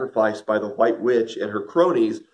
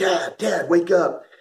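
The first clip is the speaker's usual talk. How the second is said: put-on higher-pitched kid voice. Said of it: "the kids would give me an elbow".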